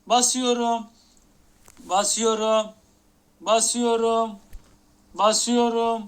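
loud, hyped-up yell of the command; hyped shout. Real, not acted. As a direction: bellow it like pressing the big button. Hyping himself to open case. (heyecanla bağırarak)

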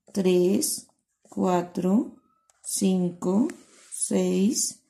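slow, sing-song counting with a rise on each number; counting with the class. Shown as a demonstration. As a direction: count along for the children, one by one. Teacher counts lines with class.

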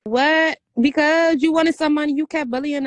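loud retort. Real, not acted. Sister answers Maggie's bullying accusation, loud and defensive. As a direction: fire it back at her loudly. Sister snaps back in quarrel.

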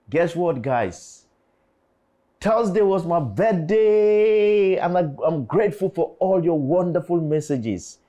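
high, loud, drawn-out birthday cheer; excited announcement. Real, not acted. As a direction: belt out the big news, stretching the first words.

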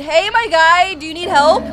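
ordinary delivery

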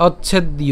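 "অচ্ছেদ্য" as och-chhed-iyo; "অচ্ছেদ্য" ending in an audible iyo; joined pronunciation demo. Shown as a demonstration. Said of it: "এই অংশটুকু আমরা একসাথে উচ্চারণ করছি".

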